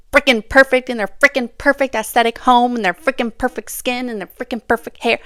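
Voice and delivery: exasperated rant about perfection; vent, frustrated and building; irritated rant at perfect influencers; getting heated. Real, not acted. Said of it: "I'm getting heated".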